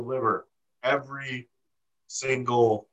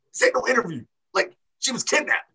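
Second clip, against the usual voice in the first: mock yell; 11 semitones higher than usual. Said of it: "yelling at McKenzie".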